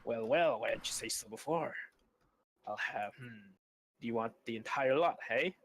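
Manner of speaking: lightly voiced oily slave trader; a hint of a merchant smelling profit; greedy trader. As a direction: trader greeting a customer, delighted. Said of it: "and say".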